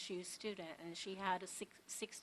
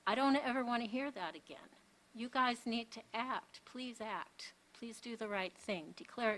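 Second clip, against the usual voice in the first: raised, pressing voice; loud urgent plea; 3 semitones higher, 6 dB louder than usual. Real, not acted. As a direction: push hard, almost pleading. Pleading with the board to act.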